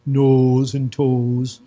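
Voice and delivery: very slow, drawn-out Wisconsin vowels, teasing; mock the wife's Wisconsin accent, stretching it out. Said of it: "She can hang out with people from Wisconsin".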